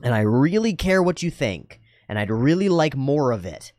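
emphatic sincerity, stretched on "really"; heartfelt, lifted-pitch assurance; earnest. Shown as a demonstration. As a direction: pledge attention directly and wholeheartedly. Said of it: "look somebody in the eye".

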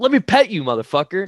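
high, loud burst on the first words; hammed-up gung-ho yell; mock eager daredevil. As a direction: play the reckless tiger-petter. Acting out man hopping into tiger cage.

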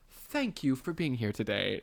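quoting Clarice. Retold or imitated. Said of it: "She's like, you have to go".

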